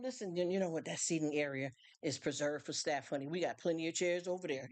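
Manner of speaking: gently steer them away, calm and kind; nice, cool, calm. Shown as a demonstration. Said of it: "nice, cool, calm".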